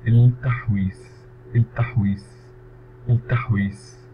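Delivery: التحويس drawn out slowly with stress; slow model word. Shown as a demonstration. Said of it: "الفيرب". (نطق بطيء وواضح لكلمة التحويس)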